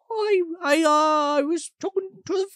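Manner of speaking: put-on high, stammering old man; flustered grandpa. Grandpa caught talking to the box, high flustered stammer. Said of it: "And he's like".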